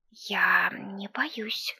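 slow, breathy whisper. A narrator's reading. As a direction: whisper it to yourself. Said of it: "шёпотом сказала Оленька".

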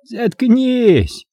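high-pitched sharp outburst; barked order. A narrator's reading. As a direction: cut her off with a high bark. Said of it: "рявкнул Эстервей".

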